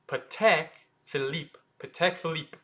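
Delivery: Patek Philippe as puh-TECK fee-LEEP, crisp short syllables; short French pronunciation. Shown as a demonstration. Teacher models the brand name, short French pronunciation. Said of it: "lot shorter than saying".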